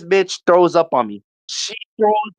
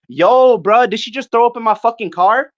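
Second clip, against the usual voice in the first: loud, high incredulous demand; acting out an indignant friend; imitated outrage; 8 semitones higher, 4 dB louder than usual. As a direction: open loud and high as the outraged car owner. Imitates friend outraged over his car.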